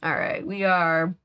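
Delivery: talking with a mouth full of food. Real, not acted. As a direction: speak around a bite of food. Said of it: "sorry to talk with my mouth full".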